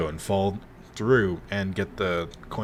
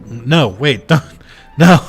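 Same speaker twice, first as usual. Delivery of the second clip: pleading; 5 semitones higher, 11 dB louder, slower than usual. Real, not acted. Pleading with chat, louder.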